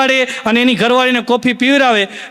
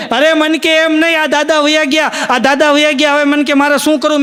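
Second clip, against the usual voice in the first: put-on wailing old widow; 3 semitones higher than usual. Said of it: "ડોશીમાં બેઠા બેઠા રોતા હતા".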